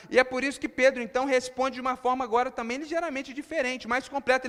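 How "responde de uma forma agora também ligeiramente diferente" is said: usual speaking voice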